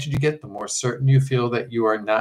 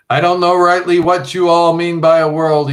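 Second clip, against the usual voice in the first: short of breath; 6 semitones higher, 8 dB louder than usual. Acted. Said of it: "talking like a man who hasn't enough air".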